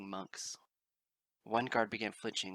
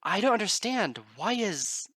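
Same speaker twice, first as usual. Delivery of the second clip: very high, loud anguished protest; desperate crying out; 11 semitones higher, 10 dB louder than usual. Acted. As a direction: cry out helpless against the chaos. Bard cries amid chaos.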